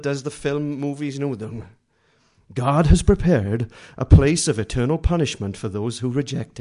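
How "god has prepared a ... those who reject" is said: louder dramatic trailer narration; movie trailer voice. Retold or imitated. Preacher mocking a tract as a film-trailer voiceover, dramatic. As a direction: read it like a film trailer announcer.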